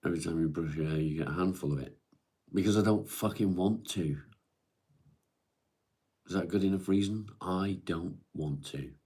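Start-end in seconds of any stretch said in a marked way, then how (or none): 2.5-8.9 louder, higher snap of refusal; defiant outburst. Real, not acted. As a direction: push back hard, fed up. Defiant retort about brushing hair.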